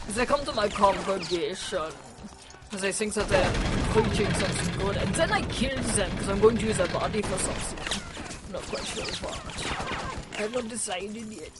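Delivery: a lightly done, bad German accent, a bit low; mock German accent, barely put on; really bad German accent. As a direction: play the villain preacher in a half-hearted German accent. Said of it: "That was my really bad German accent".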